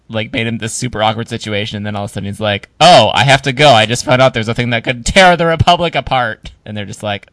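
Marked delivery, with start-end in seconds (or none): 2.8-6.5 mock urgent excuse.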